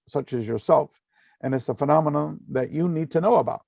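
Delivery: fast, even robot-like delivery; robotic voice. Retold or imitated. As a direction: speak like a channeled machine. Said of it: "like, in a robotic voice".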